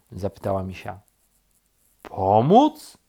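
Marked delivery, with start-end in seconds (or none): 2.0-3.0 high, loud rising question; incredulous. A narrator's reading. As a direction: echo the word in disbelief. Rabbit incredulous at helping.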